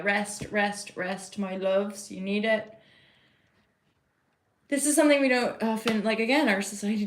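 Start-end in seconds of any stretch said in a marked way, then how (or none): 0.0-2.7 slow, gentle repeated rest; soothing. Real, not acted. To her viewers in a reading, slow soothing reassurance. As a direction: lull them into resting.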